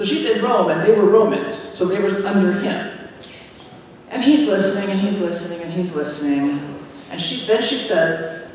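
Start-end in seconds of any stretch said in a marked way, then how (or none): 4.1-6.8 storyteller drawing out the emperor listening, fading; fading suspense. Acted. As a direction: let the voice sink with each repeat. Building suspense, repeated.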